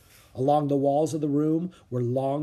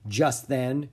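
plain reading voice

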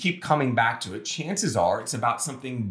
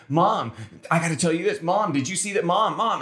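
higher-pitched imitation of insistent kids; pestering kids; 5 semitones higher than usual. Kids interrupting their parents' couch talk, imitated as pestering. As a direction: lightly mimic children nagging for Mom.

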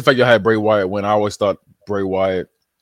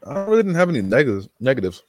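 talking through a mouthful of candy; chewing while talking; mouth full; 2 semitones higher than usual. Real, not acted. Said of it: "Sorry, I'm eating some Starburst".

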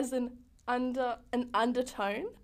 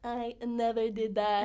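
slow mock-presidential denial; Donald Trump; slower than usual. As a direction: lightly impersonate Trump, stretching the words. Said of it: "What's something Donald Trump says?".

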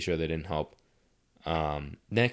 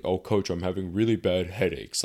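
hammed-up whimper of a complaint; whining to the coach about headaches, mock; mock whiny complaint. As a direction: play it up like a sorry excuse. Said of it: "Like I was on, like, my menstrual cycle".

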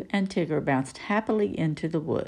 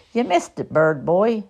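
higher, louder jab; teasing call; 3 semitones higher, 6 dB louder than usual. Acted. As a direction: tease the bird cheekily. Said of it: "said Tigger".

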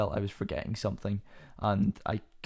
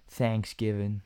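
put-on American accent; slower than usual. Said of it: "That's a horrible accent".

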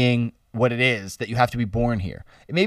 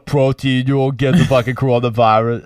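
Arnold impression. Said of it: "That's a terrible".

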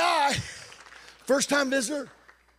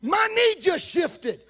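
amazed laugh; 9 semitones higher, 3 dB louder, slower than usual. Retold or imitated. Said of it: "And the guy went".

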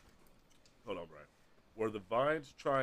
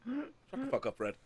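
mock angry; 14 semitones higher than usual. Player snaps at companion.

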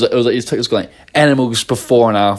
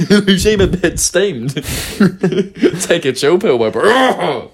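mocking bro voice; 7 semitones higher, slower than usual. Mocking commenter telling her calm.

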